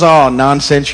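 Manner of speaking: flattered. Acted. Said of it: "in sort of a flattered tone".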